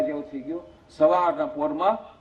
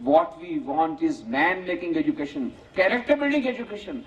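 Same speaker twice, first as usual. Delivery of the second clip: quoting Vivekananda; much slower than usual. Retold or imitated. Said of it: "Swami Vivekananda કહ્યું હતું".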